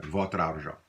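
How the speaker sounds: "votre argent" with the R of "votre" sounded before "argent". Shown as a demonstration. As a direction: link "votre" to "argent" through its R: "votr-argent". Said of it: "you hear that little R sound there".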